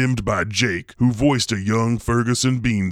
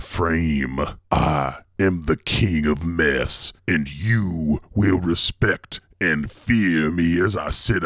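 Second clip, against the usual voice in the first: horror host; 3 semitones lower than usual. Acted. Boastful monster-of-mess monologue.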